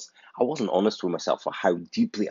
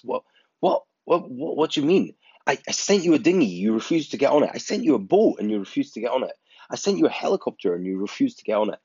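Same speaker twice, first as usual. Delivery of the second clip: exasperated God; 5 semitones higher than usual. Retold or imitated. God answers the drowned man.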